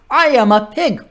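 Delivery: high-pitched talking pig; pig's voice. A narrator's reading. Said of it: "said the pig".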